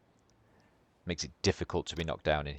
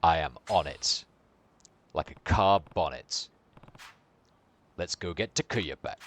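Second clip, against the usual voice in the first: lightly voiced hero; 3 dB louder than usual. Kiryu's reply, slow and emphatic.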